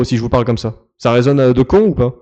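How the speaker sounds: voix forte et posée; test micro fort. Shown as a demonstration. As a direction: parle à plein volume pour tester le son. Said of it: "est-ce que là, ça résonne beaucoup". (voix forte d'essai micro)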